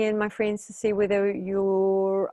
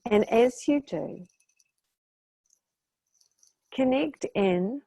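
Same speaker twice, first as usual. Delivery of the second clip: measured meditation voice with long pauses between phrases; guided meditation. Real, not acted. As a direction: guide listeners into calm, stretching the breathing cues.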